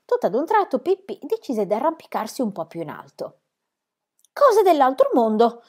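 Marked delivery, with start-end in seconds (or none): 4.3-5.6 loud, high, drawn-out storybook cry; shouting from above. A narrator's reading. Girl to friends below from up the tree, amazed shout. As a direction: call it down slowly from up high. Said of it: "gridò di lassù".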